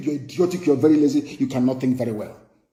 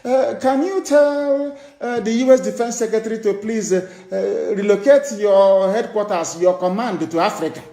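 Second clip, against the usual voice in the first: halting, higher mock reading of a plea; mock written speech; 3 semitones higher than usual. Preacher mocks the leader reading a written request, halting. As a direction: parody a stumbling official reading. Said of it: "it's written speech".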